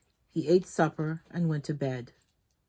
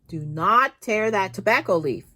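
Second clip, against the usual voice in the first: put-on sharp raised yell at the new boy; angry boss scolding a worker; 5 semitones higher, 7 dB louder than usual. A narrator's reading. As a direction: bark it at the boy like a strict boss. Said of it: "the boss yelled at the new boy".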